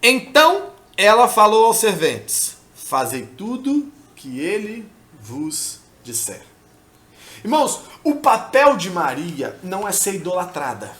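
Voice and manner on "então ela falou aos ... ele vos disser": hushed, deliberate Bible reading; scripture reading. Acted. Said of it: "Diz o seguinte".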